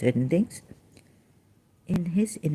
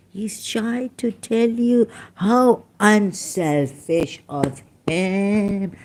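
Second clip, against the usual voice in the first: emotional sarcasm; 5 semitones higher, slower than usual. Real, not acted. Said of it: "Sorry, my emotional damage".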